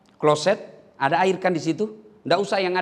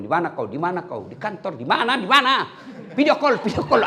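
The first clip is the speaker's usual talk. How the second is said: nagging wife calling, building; 2 semitones higher than usual. Retold or imitated. Wife phoning husband repeatedly.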